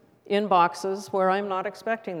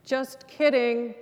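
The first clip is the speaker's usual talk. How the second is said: higher, slow little frog voice; sheepish frog; 4 semitones higher, slower than usual. Acted. Cartoon frog backing down to God, high sheepish voice. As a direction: back down in a small, raised voice.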